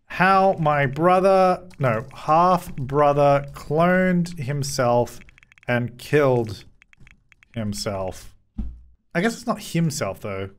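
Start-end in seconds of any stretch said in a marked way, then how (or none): 0.0-8.3 slow mock-sad narration; sad vlog voice. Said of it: "Sad vlog".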